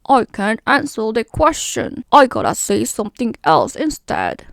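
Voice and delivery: exaggerated childish whining imitation; mock whining child. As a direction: imitate a whiny kid dodging a question. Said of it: "Just whining like a fucking child".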